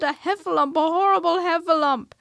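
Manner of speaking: high, loud squeaky panic; a small animal screaming in terror; terrified Piglet. A narrator's reading. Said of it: "cried Piglet".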